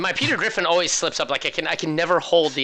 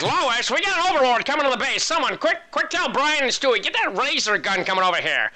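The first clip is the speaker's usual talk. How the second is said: much higher cartoon dad voice calling for help; Peter Griffin impression; 8 semitones higher than usual. Caster narrating the overlord attack as a cartoon dad. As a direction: yell for the family like a panicky cartoon dad. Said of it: "That's the way my Peter Griffin is like".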